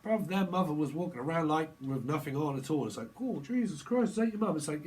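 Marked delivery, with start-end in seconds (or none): 3.2-4.6 high startled outburst; mock shocked exclamation. Friend at the door, seeing naked mum, high startled outburst. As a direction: blurt it out, half-laughing in shock.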